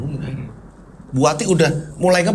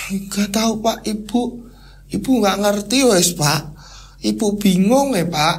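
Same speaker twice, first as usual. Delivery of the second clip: higher, dazed and helpless wife; babbling half-crazed; 5 semitones higher, slower than usual. Acted. Bewildered wife to her husband, half-crazed babbling. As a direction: wail in confusion, losing her grip. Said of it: "Udah mulai kayak gitu, Wati".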